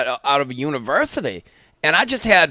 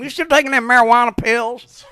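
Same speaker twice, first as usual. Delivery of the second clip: imitating wrestler; 7 semitones higher, 4 dB louder than usual. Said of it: "Nick Goulish used to say to him".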